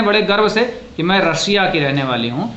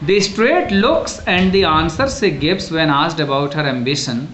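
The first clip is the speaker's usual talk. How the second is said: slow, measured read-aloud; textbook reading; much slower than usual. Acted. Teacher reading a passage before explaining it in Hindi, textbook reading. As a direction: read the passage out deliberately for a class.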